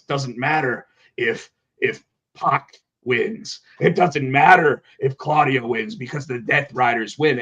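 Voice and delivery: slow, deliberate imitation of Moxley; drawn-out, measured wrestler promo; slow Moxley impression. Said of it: "So Jon Moxley says".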